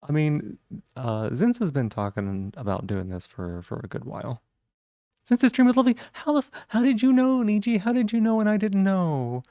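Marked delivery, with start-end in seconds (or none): 5.2-9.4 high, loud, playful outrage; indignant surprise. Real, not acted. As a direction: demand to know in happy shock. Learns a friend knew first.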